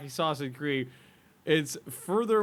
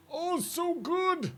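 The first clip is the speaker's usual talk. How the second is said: high, slow, swooning "so good"; dreamy savoring; 11 semitones higher, 5 dB quieter, much slower than usual. Real, not acted. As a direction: melt over the taste. Savoring imagined bacon soup.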